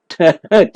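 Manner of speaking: short chuckle at own slip; amused chuckle. Real, not acted.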